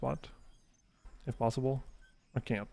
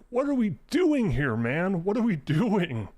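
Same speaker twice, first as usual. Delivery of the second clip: much higher and louder, fed-up ranting; exasperated rant; 4 semitones higher, 3 dB louder than usual. Retold or imitated. Ranting at a friend who AFKs Fortnite, loud and exasperated. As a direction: throw your hands up at the whole game. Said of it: "And I'm like".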